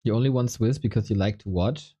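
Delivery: ordinary talk, nothing marked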